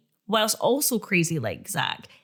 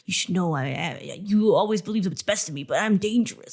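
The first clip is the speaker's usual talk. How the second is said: lightly voiced brooding romantic hero; understated mock brooding, starting low; Twilight-y brooding; 3 semitones lower than usual. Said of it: "again, Twilight-y kind of".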